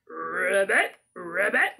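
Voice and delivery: frog ribbit. Shown as a demonstration. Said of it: "what a frog says".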